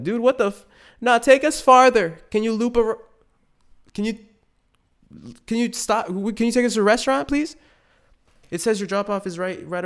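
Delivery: high, loud flustered pleading; panicked rider. Acted. Rider startled by luxury car, high and flustered. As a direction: scramble to redirect the driver.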